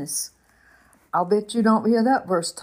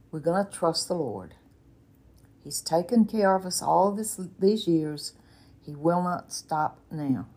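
calm husband; 2 semitones lower, 4 dB quieter than usual. Retold or imitated. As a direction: settle her panic with quiet faith. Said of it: "in his calm way".

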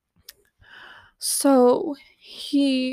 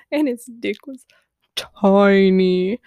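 whispered reveal; 3 semitones lower, 4 dB louder, slower than usual. Real, not acted. Spilling embarrassing secret.

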